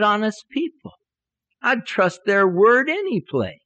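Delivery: high, insistent, stretched-out arguing; mock-earnest defence of honest friends; indignant protest. Preacher arguing back to God about their word, indignant.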